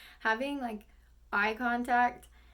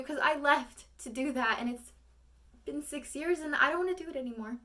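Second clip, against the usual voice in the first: defeated monologue; 4 semitones higher than usual. Acted. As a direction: let the hurt settle into resignation. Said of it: "the monologue starts".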